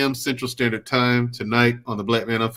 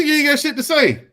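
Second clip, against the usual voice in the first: mock diss; 12 semitones higher than usual. Retelling a diss to Mandrill.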